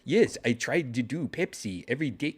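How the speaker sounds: a hint of a vague foreign accent; weird character voice. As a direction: slip into a strange made-up interview voice. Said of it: "so I had to have this weird voice".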